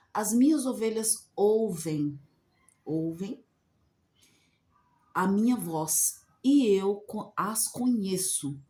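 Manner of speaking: slow, measured reading of the verses; scripture reading. Acted. Preacher reading John's verses to her viewers, slow and solemn. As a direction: read the Bible passage slowly and solemnly. Reads Bible verses aloud.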